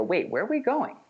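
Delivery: high-pitched asking, "going" swinging up; rising question intonation. Shown as a demonstration. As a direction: lift "going" upward at the end like a question. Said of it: "There's that upward inflection at the end".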